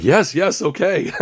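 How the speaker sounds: excited yes. Retold or imitated. Fan agreeing to meet Cary at the after party. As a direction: gush with excitement. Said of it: "I was like".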